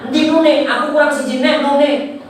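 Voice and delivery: lightly acted high-pitched complaint; complaining guest. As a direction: pipe up as a guest missing out. Voices guest asking for missing Nun.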